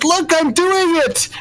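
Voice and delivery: high, thrilled shout of triumph; excited teen. Acted. Pride Star crowing to Envy over his laser, excited. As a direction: show off like a proud kid. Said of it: "he turns back and says".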